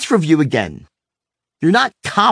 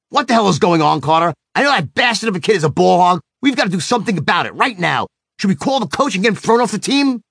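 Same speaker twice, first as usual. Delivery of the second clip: mock-outraged dad, building higher; booming angry voice; 4 semitones higher, faster than usual. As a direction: act angrier than your upset son. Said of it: "I said with my voice booming".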